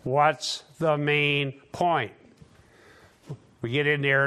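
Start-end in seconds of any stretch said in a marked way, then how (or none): 0.0-2.1 slow, deliberate quoting of a teacher; a professor's measured, recurring question; teacher's pointed question. Retold or imitated. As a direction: space out each word for emphasis. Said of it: "Doctor Versaput was always asking".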